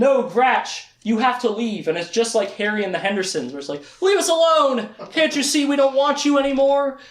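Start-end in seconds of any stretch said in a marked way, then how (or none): 0.0-1.9 louder, higher pleading order; firm dismissal. Acted. Richard telling Gratch to go, firm and raised. Acted, sending creature away. 4.0-7.0 loud, high acted shout; anguished dismissal. Richard forcing his creature friend away, anguished high shout.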